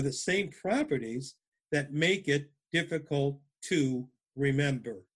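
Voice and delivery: quoting slowly. Shown as a demonstration. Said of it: "And I quote".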